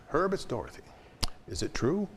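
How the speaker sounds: retold urgent call; imitating an urgent Dorothy. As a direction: push for the answer. Dorothy phones Herb Camm.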